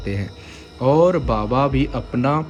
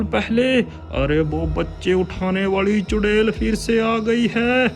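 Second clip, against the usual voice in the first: high anxious elder voice; alarmed and urgent; worried village head; 11 semitones higher than usual. Acted. (चिंतित मुखिया)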